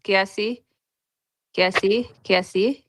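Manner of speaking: "Kiasi" repeated, each ending on a rise; calling out a name. Real, not acted. Host checking if the next speaker Kiasi is there, calling out. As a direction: call "Kiasi" with a questioning lift.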